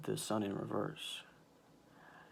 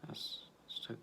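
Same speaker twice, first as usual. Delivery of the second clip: choked up; 10 dB quieter than usual. Real, not acted. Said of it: "I'm actually getting a little emotional".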